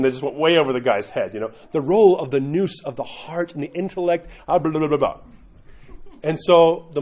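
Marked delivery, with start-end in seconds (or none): 1.7-5.2 lightly mocking high-flown questioner, running into blah-blah; a touch of mock intellectual zeal; zealous convert. Convert asking over the guy's head, lightly mock zealous. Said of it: "tons of zeal".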